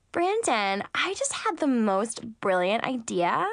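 slow breathy flirting; breathy whispered sweet talk. Acted. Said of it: "she said in a breathy voice".

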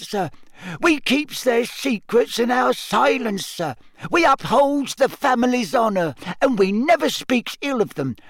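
high earnest elf voice; solemn little elf; house elf voice. Acted. Dobby elf voice.

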